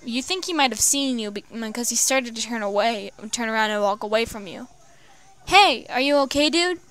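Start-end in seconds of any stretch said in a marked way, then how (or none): 5.5-6.8 mild called-out shout, raised pitch; yelling out. Acted. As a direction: call out to check on him, a bit louder and higher. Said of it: "you yelled out".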